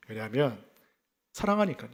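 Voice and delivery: normal talking voice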